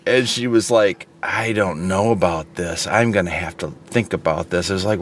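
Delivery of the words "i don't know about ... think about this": lower, reluctant customer imitation; mock witchy customer. Customer balking at paying window cleaner, lightly voiced low reluctance. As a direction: lightly voice a stonewalling customer, pitched down. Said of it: "the spawn of Satan emerged".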